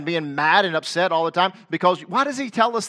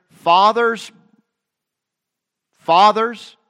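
loud, raised call of "Fathers"; 6 semitones higher, 9 dB louder, much slower than usual. Real, not acted. Preacher calling out to fathers in congregation, loud.

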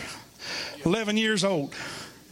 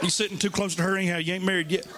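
laughing tease; 3 semitones lower, faster than usual. Real, not acted. Joking aside to congregation.

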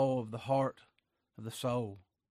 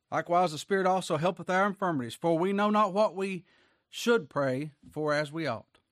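raised, emphatic Bible reading; preacher proclaiming scripture; 4 semitones higher, 5 dB louder than usual. Acted. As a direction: read the verse out strongly to a congregation. Reads scripture aloud to congregation.

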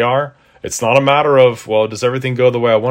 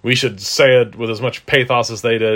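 mocking quote. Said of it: "and then saying".

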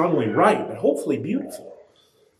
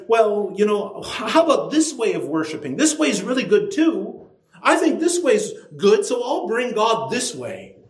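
higher, casual self-justifying voice; careless worshipper; 6 semitones higher than usual. Retold or imitated. Preacher voices a careless worshipper, airy and casual. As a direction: voice someone excusing their own way.

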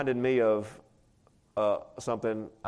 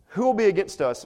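rhetorical question; 8 semitones higher, 6 dB louder than usual. Acted. Preacher reads rhetorical question.

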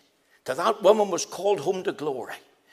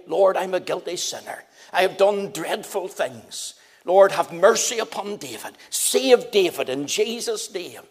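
calling out; 4 dB louder than usual. Retold or imitated. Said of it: "I called out".

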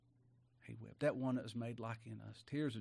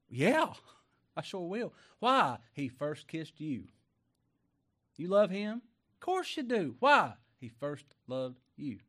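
eager call and response; 3 semitones higher, 7 dB louder than usual. Pretend. Acted call and answer dialogue.

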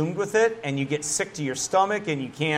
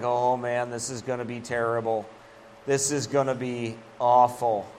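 mock dread; 4 semitones lower, 4 dB quieter than usual. Worrier before a meeting, low mock dread. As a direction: moan it like a doomed worrier. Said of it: "You're like".

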